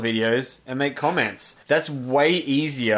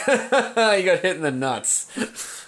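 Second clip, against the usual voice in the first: laughing; 5 semitones higher, much slower than usual. Retold or imitated. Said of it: "everyone would be like".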